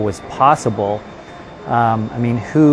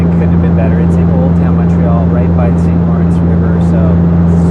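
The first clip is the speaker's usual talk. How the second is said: raised voice over loud propellers; talking over engine noise; 6 dB louder than usual. Real, not acted. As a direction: speak up over a noisy cabin. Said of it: "so that's why it's so loud right now".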